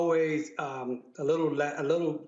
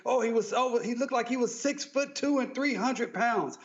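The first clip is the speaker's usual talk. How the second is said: higher-pitched imitation of an officer's excuse; mock officer excuse; 6 semitones higher than usual. Lawyer quoting officers' exaggerated descriptions of suspects, higher mock voice. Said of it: "I've seen them call people".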